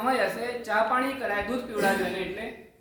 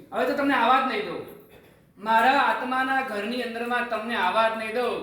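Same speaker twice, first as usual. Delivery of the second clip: defiant warning; 3 semitones higher, 4 dB louder than usual. Acted. Defying anger, ego as intruder.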